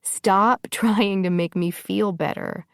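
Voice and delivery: laughing mid-line, still teary; laughing through tears. Acted. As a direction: giggle breaking into the words. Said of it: "She laughed a little harder".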